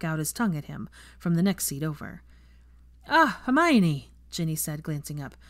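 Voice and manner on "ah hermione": mock-warm greeting. A narrator's reading. Ginny greets Draco's partner coolly.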